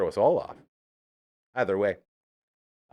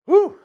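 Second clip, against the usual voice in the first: sharp, high, loud exhale whew; out of breath whew; 10 dB louder than usual. Real, not acted. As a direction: blow out a big breathless whew. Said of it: "Getting a little out of breath".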